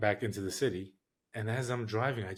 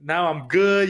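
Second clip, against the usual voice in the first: a hammed-up boast, higher and louder; imitating Al bragging; 6 semitones higher, 7 dB louder than usual. Al bragging to the narrator about volleyball in Brazil, mock boastful. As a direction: play Al showing off his beach volleyball skills. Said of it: "'cause Al was saying".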